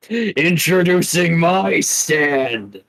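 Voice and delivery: drawn-out figure introducing itself; slow, lightly voiced stand; stand's introduction voice. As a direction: announce yourself slowly, stretching the words. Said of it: "And goes".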